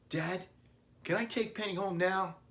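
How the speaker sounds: put-on high, pleading boy's voice; little boy asking to take the puppy home; eager child begging. A narrator's reading. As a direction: beg Dad like an excited kid. Billy begging father.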